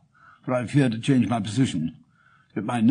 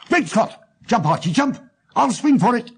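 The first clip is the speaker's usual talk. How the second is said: high, loud cry of alarm; high urgent shout as the police close in; 12 semitones higher, 3 dB louder than usual. Acted. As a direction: yell a warning to your partner in crime. Thief shouts warning to partner.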